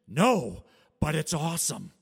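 loud, enthusiastic retold reply; enthusiastic exclamation. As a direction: blurt it out loudly, imitating a keen stranger. Stranger's enthusiastic answer acted out.

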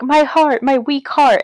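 high-pitched mock distress; pretend heart trouble. Woman playing victim after dog attack, hammed-up distress. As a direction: ham up a weak heart. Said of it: "just pretending".

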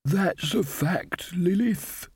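put-on an old witch shrugging it off; light, unhurried agreement; mild. A narrator's reading. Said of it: "said Desiderata mildly".

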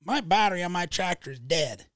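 retold huffy complaint. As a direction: imitate an angry caller complaining. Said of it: "mad, madder than heck".

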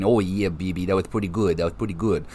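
a self-admitted rough Southern wrestler impression; Dusty Rhodes impression. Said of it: "Mine's terrible".

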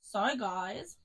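lightly put-on Australian twang; Australian accent. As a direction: slip briefly into an Australian accent. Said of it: "that was my Australian accent".

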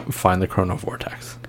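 whisper. Acted. NPC whispers secret.

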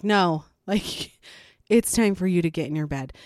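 laughing, fast exasperated repeat. Retold or imitated. Mom repeating bedtime to a stalling child, exasperated. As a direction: push it through with a tired laugh. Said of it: "And I'm like".

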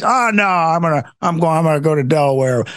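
a hammed-up mocking Biden, rushed; mock the president, fast.

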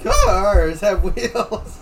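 slow, deliberate crack in the voice. Acted. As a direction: let the voice break on purpose, slowly. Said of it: "that voice crack was actually kind of on purpose".

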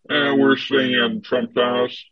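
slow attempt at a Texan accent; rough, half-successful Southern US accent. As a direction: imitate an older Texan tourist, slowly drawn out. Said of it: "Let's hear your best Southern accent impression".

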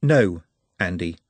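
slow, calm and firm; calm orc voice. Acted. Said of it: "said Nut behind him".

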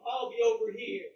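dismissive call across the room; mock shout. Speaker rejects Christians in the barracks, dismissive shout. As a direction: wave them off loudly.

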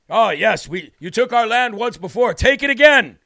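mock Native American accent, emphatic and stilted. Host mimicking the tribe giving up land, mock Native American accent. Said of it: "Native American accent".

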